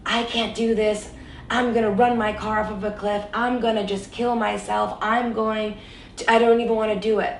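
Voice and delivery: mock desperate rant, speeding up; retold angry threat. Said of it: "I would get so angry and I would call my boyfriend".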